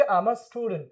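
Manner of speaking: "I'm a student" with "I'm a" run together; contracted I'M. Shown as a demonstration. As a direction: model "I'm" as one syllable. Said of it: "क्या बोलेंगे?". ("I'm a" को एक साथ बोलो)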